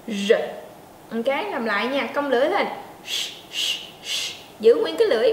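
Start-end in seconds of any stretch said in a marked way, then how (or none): 0.1-0.3 R with the tongue curled back. Shown as a demonstration. Teacher demonstrates the curled-tongue English R. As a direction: pop out R with tongue up. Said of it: "nói bật ra âm thanh".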